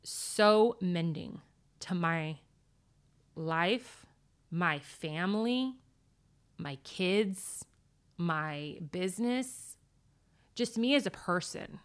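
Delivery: holding back tears as she thanks her; tearing up. Real, not acted. Guest thanking her mentor on air, close to tears. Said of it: "you're not supposed to cry on this".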